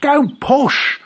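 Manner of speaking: very high, loud squeaky protest; squashed Rabbit. A narrator's reading. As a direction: squeal as you're being shoved.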